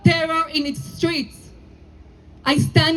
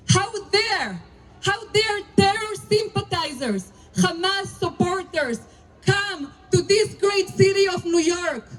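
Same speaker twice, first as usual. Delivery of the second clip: indignant rally oration. Real, not acted. Rabbi to the rally crowd, indignant and emphatic. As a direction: hammer each how dare at the crowd.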